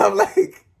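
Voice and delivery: high laugh breaking into the words; real high laugh. Real, not acted. Amused by a friend's voice memo, a high laugh.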